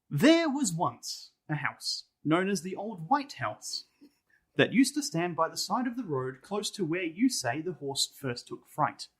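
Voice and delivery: measured storybook reading voice; story narration. Acted. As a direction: read it like an old ghost tale, unhurried. Reading the ghost story aloud.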